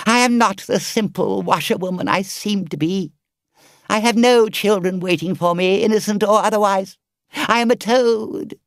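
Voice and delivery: high, loud begging Toad, slowing at the end; desperate pleading. Acted. Toad on his knees begging the engine driver, desperate. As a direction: beg for rescue in full self-pity.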